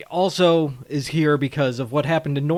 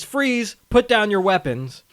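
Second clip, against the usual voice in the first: higher, acted cop order; retold police command; 5 semitones higher than usual. Cop bursting in on the goons, commanding. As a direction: call out a mock arrest.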